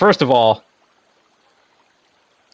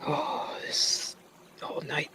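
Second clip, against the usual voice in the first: a breathy tired whisper; 16 dB quieter, slower than usual. Real, not acted. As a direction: sigh it out under the breath. Weary player aside.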